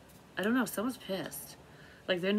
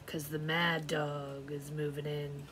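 slow, strange drawn-out reading; odd slow delivery; 3 semitones lower, 3 dB quieter, slower than usual. Real, not acted. Reader catches herself saying the line strangely, slow. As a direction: let the line come out oddly slow. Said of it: "Why the fuck did I say it like that?".

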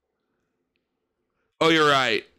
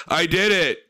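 deadpan; 3 semitones higher than usual. Retold or imitated. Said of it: "he is so deadpan when he says".

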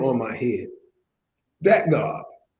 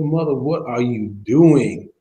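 slow, louder retold question of disbelief; mock disbelief; 5 dB louder, slower than usual. Catching Mother Lucas hauling her trash, mildly incredulous. Retelling his shocked question to elder.

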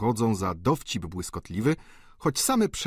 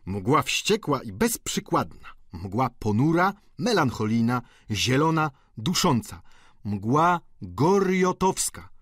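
slow, theatrical list building to a high finish; mock-dramatic roll of descriptions; jocular student; 4 semitones higher than usual. A narrator's reading. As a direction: savour each word, stretching the last. Student piles up joking adjectives.

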